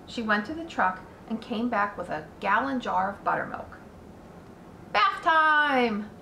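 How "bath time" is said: high, bright call of bath time; cheerful. A narrator's reading. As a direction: sing it out happily. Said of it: "said the Zuckermans cheerfully".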